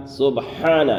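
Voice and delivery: سبحان with a breathy, audible ha; سبحان said as sub-haan with a clear ha. Shown as a demonstration. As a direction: let the ha in سبحان be heard. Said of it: "ہا کو ظاہر کرنا ہے".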